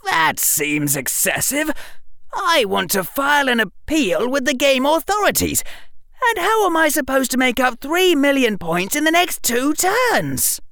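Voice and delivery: indignant Harry. A narrator's reading. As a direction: protest like an affronted boy. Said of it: "Harry said indignantly".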